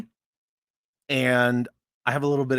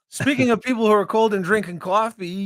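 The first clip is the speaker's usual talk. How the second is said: second take; 8 semitones higher than usual. Acted. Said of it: "let's try that again".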